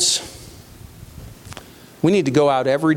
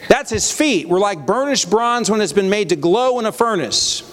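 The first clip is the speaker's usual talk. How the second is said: higher-pitched Bible reading; re-read the verse in a raised proclaiming voice; scripture reading; 4 semitones higher than usual. A narrator's reading. Preacher returning to the verse for his listeners, proclaiming. Reads scripture aloud to congregation.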